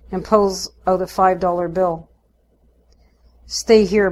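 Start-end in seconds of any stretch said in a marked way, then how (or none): 3.5-4.1 louder firm command; demanding. Acted. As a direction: order the child to stay. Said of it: "Mum demands".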